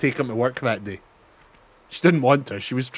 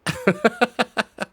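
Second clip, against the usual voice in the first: high giggling fit; high burst of giggles; high laughter; 10 semitones higher than usual. Real, not acted. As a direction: laugh high at own joke. Laughing after mock scream.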